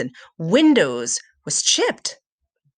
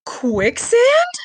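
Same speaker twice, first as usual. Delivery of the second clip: sharp high alarmed question; alarmed realization; 5 dB louder than usual. Acted. Sam realizing the sand is quicksand, alarmed. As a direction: suddenly realize the danger.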